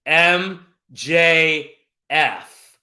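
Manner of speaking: high, projected winner announcement; grand ring-announcer reveal. Acted. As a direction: start high and big, then stretch out the winner's name. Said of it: "let's get into my announcer voice".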